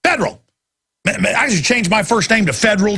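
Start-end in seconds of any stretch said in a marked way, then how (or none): 0.0-0.4 high mock chant of the password; mock robbers. Robbers mocking cops, high sarcastic chant. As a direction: squeal it like a magic word. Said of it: "they go".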